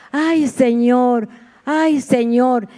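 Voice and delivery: slow, drawn-out sigh of a plea; desperate plea. Retold or imitated. A mother praying over her sick daughter, slow desperate plea. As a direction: stretch out the ay like a worn-out cry to God. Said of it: "eso era lo único que me salía".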